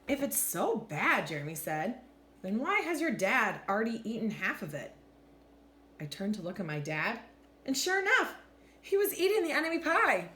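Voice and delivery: animated picture-book narration with deliberate pauses; expressive, measured storytime voice; story read-aloud. A narrator's reading. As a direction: read to children, lifting and dropping the pitch for drama.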